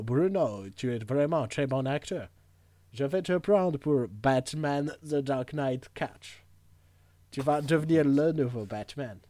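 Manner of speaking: put-on a light English accent on French, slowed in places; Nolan English accent. Nolan praising Bruno's acting, light English accent. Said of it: "Christopher Nolan".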